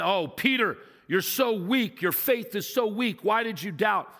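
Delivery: mildly mocked scolding preacher voice; a hint of a stern, scolding Jesus; preachy harsh Jesus. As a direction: preachers hamming up the rebuke to Peter. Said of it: "I've heard preachers preach".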